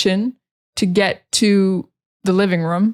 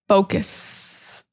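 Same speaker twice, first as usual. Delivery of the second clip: whispered focus; 5 dB quieter than usual. Shown as a demonstration.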